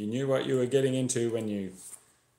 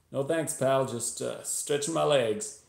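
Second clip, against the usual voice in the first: forced casual; 5 semitones higher than usual. Acted. Narrator forcing casual reply to driver.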